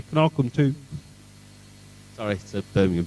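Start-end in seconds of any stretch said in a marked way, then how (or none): 0.0-0.7 Black Country dialect demonstration; lightly caricatured Black Country accent. Shown as a demonstration. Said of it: "In the Black Country, you say".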